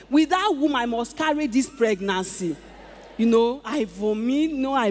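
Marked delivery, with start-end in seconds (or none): 0.1-2.6 shouted prayer. Retold or imitated. Woman reliving her prayer for a baby, shouted. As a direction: declare it like a vow.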